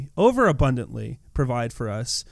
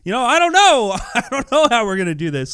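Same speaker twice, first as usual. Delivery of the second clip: mock defensive Philip; 6 semitones higher, 5 dB louder than usual. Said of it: "he gets defensive, like".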